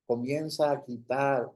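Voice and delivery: earnest public prayer in short, cadenced phrases; fervent prayer. Real, not acted. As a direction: pray aloud, building emphasis phrase by phrase. Leads an opening prayer.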